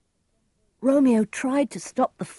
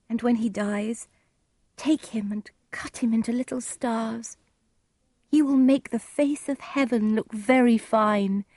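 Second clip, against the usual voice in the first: higher-pitched, gentle romantic voice; Juliet, longing; 5 semitones higher than usual. Acted. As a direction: voice a lovelorn girl in a light high tone.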